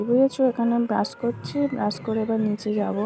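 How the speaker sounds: talking with a toothbrush in the mouth; while brushing teeth. Real, not acted. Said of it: "তো আমি এখন brush করছি".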